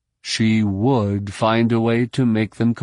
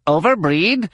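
high, sharp disbelieving echo; incredulous question; 8 semitones higher than usual. A narrator's reading. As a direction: throw the word back at her in disbelief. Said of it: "Plee questions the word".

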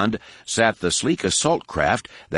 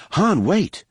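raised call after someone; 10 semitones higher than usual. A narrator's reading. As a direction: call him back urgently. Luke calling after Han.

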